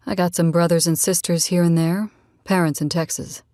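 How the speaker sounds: lightly voiced easygoing man; a hint of a relaxed male character; easygoing Rad. Man telling a new friend about his family, lightly voiced, easygoing.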